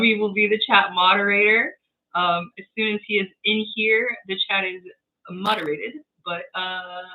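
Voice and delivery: bitcrushed, crunchy distorted sound; lo-fi crunchy mic sound; crunchy audio. Real, not acted. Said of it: "I sound a little crunchy".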